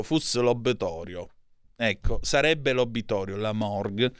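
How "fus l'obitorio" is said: «fus» said as a local dialect word; «fus» in regional dialect, then Italian. Shown as a demonstration. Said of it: "ve lo dico in dialetto".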